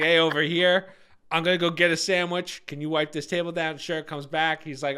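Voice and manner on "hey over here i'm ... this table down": calling out. Retold or imitated. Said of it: "But he's like".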